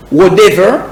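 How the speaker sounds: American "whatever" with the T softened to a D; American English flapped T in "whatever"; American accent. Shown as a demonstration. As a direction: say "whatever" the American way, like "wha-dever". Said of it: "accent américain".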